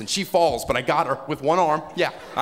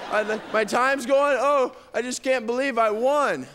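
flustered winner; 9 semitones higher than usual. Pretend. Flustered winner, time running out.

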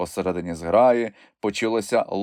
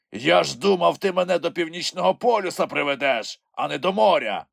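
high, aggrieved creature voice; Grampus complaining; 9 semitones higher than usual. A narrator's reading. Grampus blames Kulka for leading him to the sea, aggrieved creature voice. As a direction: grumble with disappointment.

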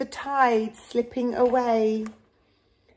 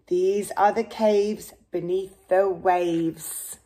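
steady storybook read-aloud; reading to children; 2 semitones lower than usual. Acted. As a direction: read the rhyme gently to a child. Reads picture book to child.

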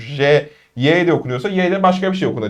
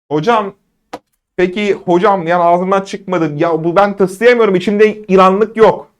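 higher-pitched pupil protesting; acted student grievance, pitched up; complaining student; 4 semitones higher than usual. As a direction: whine that you just can't do it, stretching the end.

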